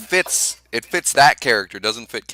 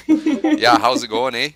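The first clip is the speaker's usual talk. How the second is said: put-on Canadian accent; 3 semitones higher, 5 dB louder, slower than usual. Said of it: "the most Canadian thing".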